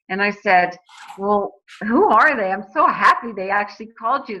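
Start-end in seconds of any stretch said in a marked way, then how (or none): 1.2-4.4 mildly excited, with big pitch swings; lively retold phone excitement; retold delight. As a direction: re-enact a pleased, eager reply. Retells her delighted reply on call.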